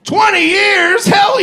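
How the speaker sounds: high, loud, slow drawn-out disbelief; amazed. Real, not acted. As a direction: stretch it out, amazed. Reacting to a couple in the audience.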